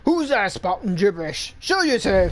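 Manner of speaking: lightly voiced suspicious thug; challenging villain. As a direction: demand the intruder come out. Villain challenges hidden speaker.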